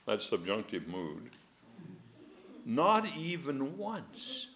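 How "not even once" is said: very slow, stressed "Not even once"; "Not" stressed slowly, then "even once"; slow emphatic. Shown as a demonstration. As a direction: draw out each word of not even once.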